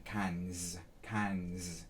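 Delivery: "cans" with the pitch dropping low on the S; low, falling "cans". Shown as a demonstration. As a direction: let "cans" fall low into the throat. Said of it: "See how when I say the S".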